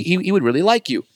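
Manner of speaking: high, bright mock woman's voice; imitating the woman. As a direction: play the sweet fan gushing up high.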